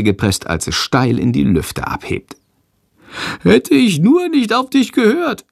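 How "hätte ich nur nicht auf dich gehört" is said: very high, plaintive little creature voice; whining. A narrator's reading. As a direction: wail it like a miserable small animal. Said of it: "jammert Shandor". (jammernd, mit ganz hoher Stimme)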